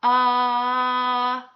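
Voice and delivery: ah said long with the mouth wide open; saying ahh. Shown as a demonstration. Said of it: "open your mouth really wide".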